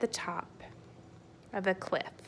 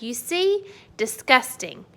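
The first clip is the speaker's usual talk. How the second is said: ranting giant; 4 semitones higher than usual. Acted. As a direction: spit the verdict out. Giant dumps beans.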